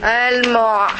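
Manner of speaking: "Al-mu'" ending on a distinct throat ain; clear final ain. Shown as a demonstration. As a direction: model "Al-mu'" with the ain audible. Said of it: "You see the ain?".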